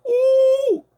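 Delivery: yelp. Real, not acted. Excited yelp mid trash talk.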